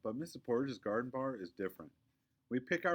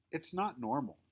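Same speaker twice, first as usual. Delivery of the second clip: prissy scolding; 8 semitones higher than usual. A narrator's reading. Victoria lecturing Quinny.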